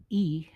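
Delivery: E as a long "ee"; pronunciation demo. Shown as a demonstration. Teacher modelling the Spanish letter, E said "ee". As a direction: say E like double E. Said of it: "it sounds like the double E".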